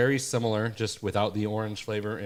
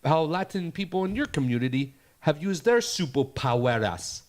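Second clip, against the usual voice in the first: higher, hammed-up Latino accent ad voice; imitated thick Latino accent; 5 semitones higher than usual. Mocking the Cheetos ad to his co-host, thick Latino accent. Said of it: "they talk with a real thick, like, uh, accent".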